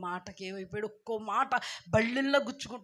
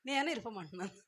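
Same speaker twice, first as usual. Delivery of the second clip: God speaking softly; 7 dB quieter, much faster than usual. Acted. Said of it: "అన్నాడు దేవుడు".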